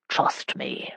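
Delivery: breathy intimate whisper. A narrator's reading. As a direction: whisper it with a sparkle. Teasing aside to Carolyn.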